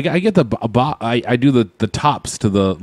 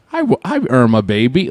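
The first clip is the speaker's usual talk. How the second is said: put-on baby talk. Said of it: "I'll just be like".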